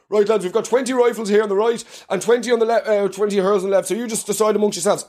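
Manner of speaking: lightly voiced rebel leader doling out rifles; a hint of a commander briefing his lads; mock rebel commander. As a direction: rebel leader addressing the men, mildly voiced. Voicing leader handing out weapons.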